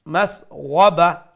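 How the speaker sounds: slow, loud মাসওয়াবা with full throaty ghain; ghain recitation. Shown as a demonstration. Teacher modelling ghain, slow full sound. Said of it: "make sure you pronounce the ghain".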